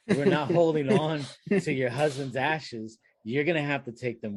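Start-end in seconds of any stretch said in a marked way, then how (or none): 0.1-3.0 higher, exasperated retort; indignant. Retold or imitated. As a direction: put your foot down in disbelief. Indignant at absurd customer.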